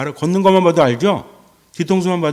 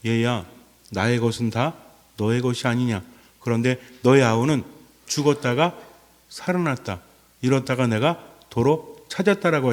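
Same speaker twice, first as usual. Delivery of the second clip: lower, softer, gentle fatherly reassurance; tender father; 4 semitones lower, 3 dB quieter than usual. Acted. Father soothing his sulking elder son, lower and softer. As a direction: coax the hurt son softly as the father.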